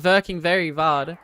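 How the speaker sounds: mock German accent with V for W; playful German-accented repeat. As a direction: say "working" as "verking", German-style. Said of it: "Very German of you".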